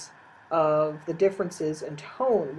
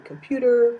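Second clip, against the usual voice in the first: "computer" with its own tune, showing a tone; varied tone demo; 6 semitones higher, 6 dB louder than usual. Shown as a demonstration. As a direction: say "computer" in a distinct demonstration tone. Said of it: "four or five different tones".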